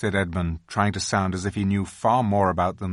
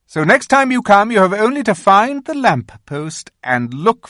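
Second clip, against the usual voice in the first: high, commanding queen voice; a regal witch giving orders; queen instructing the boy Edmund, commanding; 8 semitones higher, 6 dB louder than usual. A narrator's reading. The Queen gives directions.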